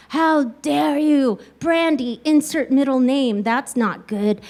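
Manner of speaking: slow, mock-outraged scolding; mild mock yell; retold screaming mother. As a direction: imitate an outraged mother, drawn out. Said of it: "my mother starts screaming at me".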